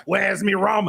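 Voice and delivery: hammed-up pirate voice. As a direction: call it out as a pursuing pirate. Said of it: "And she looked like".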